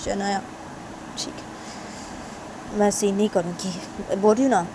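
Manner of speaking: halting plea that cracks into whispers; tearful pleading. Acted. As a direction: beg her forgiveness through tears. Tisha begs forgiveness after falling.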